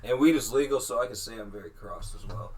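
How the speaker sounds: tipsy, loosened speech. Real, not acted. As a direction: talk like you've had a few drinks. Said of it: "I'm drunk".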